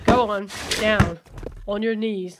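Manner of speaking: loud, hard orders; stern command. Acted. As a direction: force him down with each word. Forcing man to kneel.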